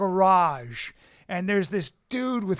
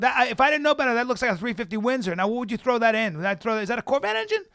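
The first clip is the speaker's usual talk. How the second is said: a higher, eager know-it-all tone; buttering him up; 6 semitones higher, 3 dB louder, faster than usual. Retold or imitated. To a garage mechanic, eagerly faking car knowledge. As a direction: fake the car expert to win the mechanic over. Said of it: "I'm gonna butter him up a little bit".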